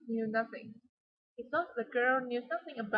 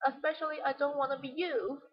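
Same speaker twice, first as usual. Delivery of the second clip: emphasize "you" to show dislike; "you" stressed at the end; 2 semitones higher than usual. Shown as a demonstration. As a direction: lean on the final "you". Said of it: "she emphasized you".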